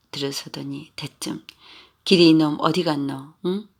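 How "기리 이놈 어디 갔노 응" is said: put-on louder, bellowing for the boy; drunk father shouting. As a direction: call him out from the gate. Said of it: "하고 소리를 질렀다".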